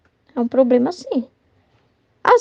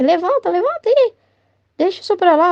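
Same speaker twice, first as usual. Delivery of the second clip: brisk urging; 4 semitones higher than usual. Retold or imitated. Imitates adults urging fallen child up.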